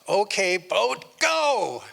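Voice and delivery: high, loud order to the boat; shouted command. Acted. Man in mid-river ordering his boat, high shout. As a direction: bark it at the boat.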